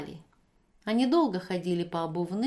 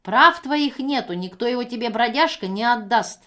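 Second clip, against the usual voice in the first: firm anger; 4 semitones higher, 8 dB louder than usual. Acted. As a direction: stand your ground, angry. Евдокия отвечает гневно. (гневно и твёрдо, громко)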